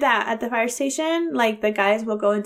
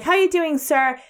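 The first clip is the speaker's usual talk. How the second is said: imitating the guard; 5 semitones higher than usual. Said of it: "he's like".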